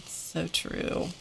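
softly whispered so true; whispered agreement. Pretend. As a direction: breathe it out as a whisper. Agreeing with a viewer comment.

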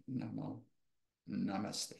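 quiet, settling end to a meditation; hushed yoga-class namaste; closing benediction. Acted. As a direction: let the blessing sink softly into silence. Closes meditation with a blessing.

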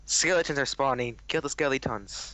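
voice changer. Real, not acted. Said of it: "maybe I wouldn't have used my voice changer".

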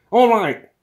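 very high, loud bawl. A narrator's reading. Intruder corrected by his partner, bawling. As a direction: bawl it, stung and impatient. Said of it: "bawled Broom Fondle".

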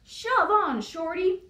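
loud high bus yell. Acted. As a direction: bark it at the little truck. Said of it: "yelled a double-decker bus".

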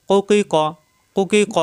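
short joined back-q syllables, reversed order; quick qaf drill. Shown as a demonstration. Teacher drilling students not to delay, quick joined syllables. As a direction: run কুকি ক together without dragging. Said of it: "দ্রুত উচ্চারণ".

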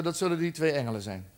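God sighing quietly at the doorbell. Acted. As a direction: let it out as a weary sigh. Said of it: "God verzuchtte".

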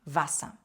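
Васа with a voiced v onset; German Wasser without a sounded R; W read as v. Shown as a demonstration. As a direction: begin Васа with v, end on open "a". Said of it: "літера В вимовляється завжди як".

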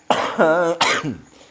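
sudden loud coughing fit. Real, not acted. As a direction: cough hard from the chili smoke. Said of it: "Kok watuk-watuk".

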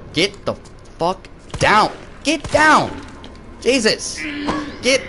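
screaming for the zombie to go down; panicked yell. Real, not acted. Gamer yells at the zombie to get down, panicked.

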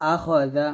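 "আখ জা" with a thick rasped kh; thick খ sound. Shown as a demonstration. Teacher drilling a word, thick kh in "আখ". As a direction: say "আখ" with a heavy, full kh. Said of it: "এখানে খটা মোটা হবে".

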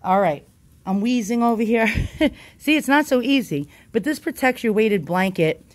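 breathless and winded, still catching air; out of breath. Real, not acted. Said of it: "Okay, I'm out of breath".

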